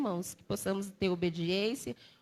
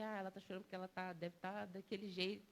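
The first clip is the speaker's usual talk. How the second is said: muttered gossip quote; 14 dB quieter, faster than usual. Retold or imitated. Mocking what gossips might say.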